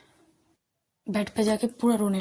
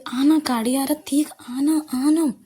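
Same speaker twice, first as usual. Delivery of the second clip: higher, louder warning call; 5 semitones higher, 7 dB louder, slower than usual. Acted. Shruti calling from behind as a car comes, urgent shout. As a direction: shout the name urgently, as if to someone behind a car's path. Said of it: "श्रुति भी पीछे से बुला रही".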